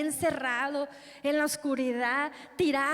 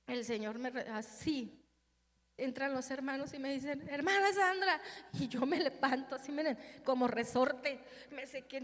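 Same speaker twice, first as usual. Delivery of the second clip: voz baja; 5 dB quieter than usual. Real, not acted.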